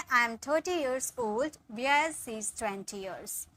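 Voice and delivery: slow, clear dictation; slow model sentence. Shown as a demonstration. Teacher dictating the translation slowly. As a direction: stretch it for students to follow. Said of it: "मैं तीस साल की हूँ".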